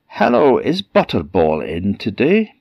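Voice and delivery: high sing-song hello; falsely friendly call at the door; troll woman fishing for the boy; sweet-talking troll. Acted.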